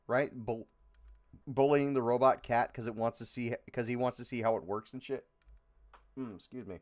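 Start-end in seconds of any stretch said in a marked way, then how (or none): 6.2-6.8 with heartburn. Real, not acted.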